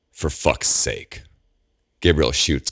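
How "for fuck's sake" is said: exasperated. Acted. Gabriel exasperated at agents.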